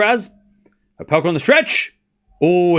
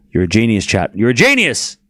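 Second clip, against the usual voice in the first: louder, gasping praise; excited gasp; 6 dB louder than usual. Pretend. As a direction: gasp like you've had a brilliant idea. Gasps, praising chat.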